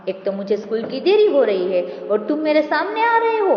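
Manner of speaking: mild mock scolding; half-hearted scold of a late schoolboy. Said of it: "डांटने लगता है".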